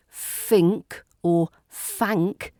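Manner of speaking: FINK and FANK with f, slow; lazy f for th. Shown as a demonstration. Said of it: "No lazy".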